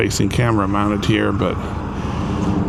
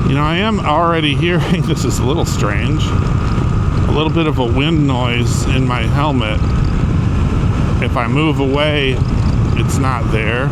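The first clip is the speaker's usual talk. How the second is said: raised voice over wind; 2 semitones higher, 3 dB louder than usual. Real, not acted. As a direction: speak up inside a helmet on the move. Talking in helmet while riding.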